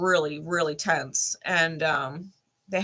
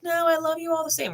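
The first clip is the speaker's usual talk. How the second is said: mimicked mom; 10 semitones higher than usual. Mother's reply retold, mimicked.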